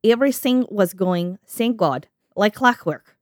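put-on Russian accent, reading a diary; deliberate, hammy Russian accent. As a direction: read it in your best amateur Russian accent. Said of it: "my best Russian accent".

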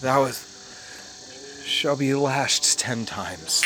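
slow haughty royal decree; evil queen. Pretend. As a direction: pronounce the sentence like a cruel queen. Mock royal punishment decree.

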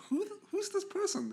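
confused. Retold or imitated. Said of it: "I was like".

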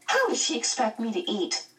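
put-on high, incredulous girl; exclaiming. A narrator's reading. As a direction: protest in a high voice. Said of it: "Meg exclaimed".

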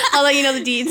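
squeaky laugh into the words; amused self-quote. Real, not acted. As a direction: giggle through the line.

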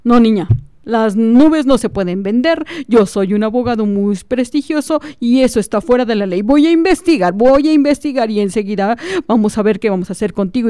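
a hint of a pompous lawyer, lecturing; a touch of a self-important lawyer scolding; lightly voiced lawyer. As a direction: talk down to the child with mild authority. Lawyer threatens legal action.

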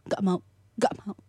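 lightly voiced bratty toddler refusing; imitated defiant child. Mother imitating her cheeky child's refusals, lightly voiced defiance. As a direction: play a cheeky little kid saying no. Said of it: "tapi teriaknya tuh yang kayak".

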